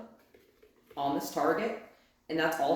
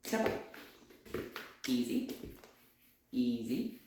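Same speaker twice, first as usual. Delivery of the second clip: soft calming; 6 semitones lower, 7 dB quieter than usual. Real, not acted. Calming overexcited dog.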